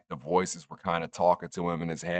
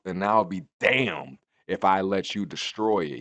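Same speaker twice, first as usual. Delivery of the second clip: angry Randy quote; 3 semitones higher, 5 dB louder than usual. Retold or imitated. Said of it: "Randy Orton is like".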